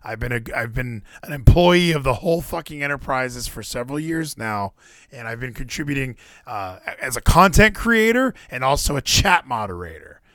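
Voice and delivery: a hint of Gino's voice, lightly done; mock a friend's cover letter voice; lightly voiced friend reciting his pitch; Gino impression. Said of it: "I do a great Gino impression".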